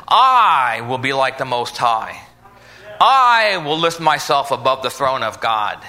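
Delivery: low, slow, grandiose devil voice; the devil boasting. Retold or imitated. Preacher voicing the devil's boast to the congregation, low and slow. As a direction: boom it out slowly like a proud devil. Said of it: "his name is called the devil".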